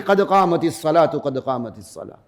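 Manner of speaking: قد قامت الصلاۃ with the t heard when joined on; joined reading. Shown as a demonstration. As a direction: let the ta of الصلاۃ sound, run into the next word. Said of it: "پڑھیں گے پھر تا آ جائے گی".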